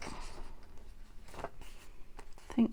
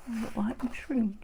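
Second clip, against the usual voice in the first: whispering; 2 semitones higher than usual. Real, not acted. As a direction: breathe it under your breath. Crafting aside, muttered to self.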